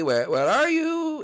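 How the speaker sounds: high, slow searching call. Acted. Luigi calling through the house for Blimpy, high and slow. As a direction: sing out across the house for a lost friend.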